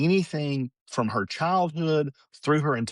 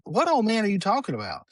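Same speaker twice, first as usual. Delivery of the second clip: high-pitched retold puzzled question; baffled mother; 8 semitones higher than usual. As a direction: imitate a mom questioning granny.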